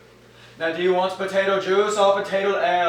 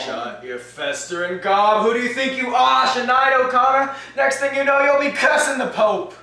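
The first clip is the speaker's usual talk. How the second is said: scolding mother; 5 semitones higher than usual. Acted.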